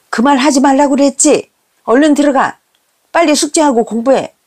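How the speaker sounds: high-pitched scolding orders; nagging mother. Retold or imitated. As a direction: send the kids off with a telling-off. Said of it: "엄마의 잔소리에".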